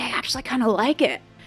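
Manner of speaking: soft, hushed stage whisper under the breath. Retelling a remark made to someone: imitating own past half-whisper. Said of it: "I kept whispering to Johnny".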